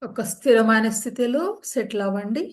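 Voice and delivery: calm, even yoga nidra guidance; measured meditation-teacher voice, unhurried gaps between phrases; guided meditation. Real, not acted. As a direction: settle listeners into stillness, with long pauses between instructions.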